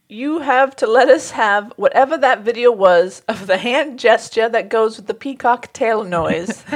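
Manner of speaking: lightly put-on British voice; horrible British accent. Reading a listener's plea for the peacock video, horrible British accent. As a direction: draw it out in a bad British accent. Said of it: "do a horrible British accent".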